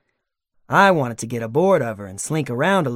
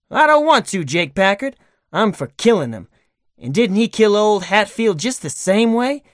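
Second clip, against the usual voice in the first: hot-headed killer; 4 semitones higher, 4 dB louder than usual. Acted. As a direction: argue hotly for the killing. Bill argues for killing.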